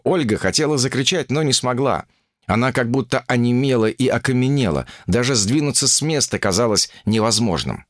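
usual speaking voice

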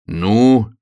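loud, rising to a squeal; high, impatient squirrel shout. A narrator's reading. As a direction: urge with a drawn-out prompt, then a very high yell. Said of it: "крикнула белка".

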